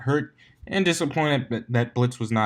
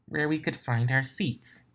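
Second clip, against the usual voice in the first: through gritted teeth; 4 semitones higher, 5 dB quieter than usual. A narrator's reading. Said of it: "said Twilight through gritted teeth".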